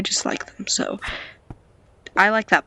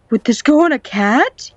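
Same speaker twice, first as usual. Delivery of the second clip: higher, louder question with rising end; excited repeat; 4 semitones higher, 5 dB louder than usual. Real, not acted. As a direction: ask it louder, lifting up on "cat".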